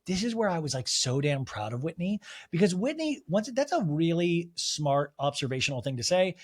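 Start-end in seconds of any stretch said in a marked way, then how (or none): none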